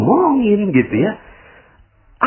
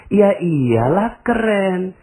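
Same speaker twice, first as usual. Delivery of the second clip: matter-of-fact affirmation; 8 semitones higher, much slower than usual. Acted. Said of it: "coba Anda ngomongnya gini".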